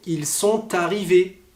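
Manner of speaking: "ils sont arrivés" with the T sounded: "il son-tarrivés"; T liaison. Shown as a demonstration. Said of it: "Par exemple".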